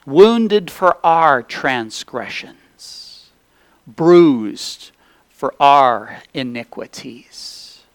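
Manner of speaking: measured prayer with long pauses between phrases; earnest public prayer. Real, not acted. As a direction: pray aloud to the Father, phrase by phrase. Leads the congregation in prayer.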